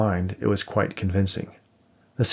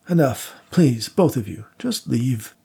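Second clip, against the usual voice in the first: sharp dismissal; 4 semitones higher, slower than usual. A narrator's reading. Widower silences the guests.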